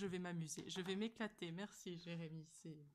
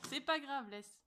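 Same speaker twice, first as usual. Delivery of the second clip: laughing; 5 semitones higher, 9 dB louder, slower than usual. Real, not acted. Laughing while reassuring friend.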